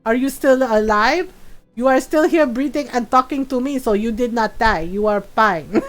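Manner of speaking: lightly voiced impression of a mother; mom's voice. Comforting scared kid with laughs, mom's voice. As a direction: imitate your mom, drawing out the final words. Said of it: "I did my mom's voice".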